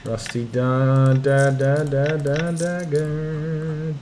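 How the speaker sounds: drawn-out stammer on dagger; stretched stammer. Real, not acted. Player reading a loot list, stammering out dagger. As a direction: stall on the word as you scroll.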